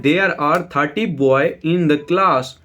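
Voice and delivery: every word spaced out slowly, as if for copying; slow dictation read. Shown as a demonstration. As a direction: read the sentence slowly for students to write. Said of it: "ये boy की spelling मैंने गलत लिखी हुई है". (धीरे-धीरे, शब्द-शब्द अलग करके पढ़ना)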